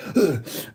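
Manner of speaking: sharp short gasp; a quick breathless gasp. Real, not acted. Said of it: "out of breath".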